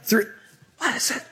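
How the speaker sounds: befuddled pilot on the intercom, making it up as he goes; confused airline captain. Acted. Captain addressing passengers over the microphone, befuddled and rambling. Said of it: "sounded kinda like this?".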